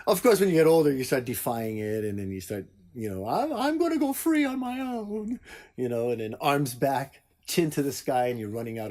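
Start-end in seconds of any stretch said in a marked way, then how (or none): 3.3-5.4 put-on higher, dreamy teen declaring freedom; grandly mocking youthful defiance; mock rebellious teen. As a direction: ham up a kid breaking free.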